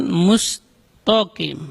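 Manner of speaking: "mustaqim" said as "mustokim"; "mustaqim" with heavy "to", plain k; thickened ta mistake. Shown as a demonstration. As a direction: darken the ta of "mustaqim" to "to". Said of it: "tidak boleh dibaca tebal".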